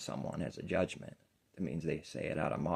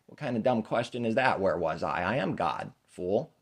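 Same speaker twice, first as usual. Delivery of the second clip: put-on God baby; 4 semitones higher, 6 dB louder than usual. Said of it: "God baby".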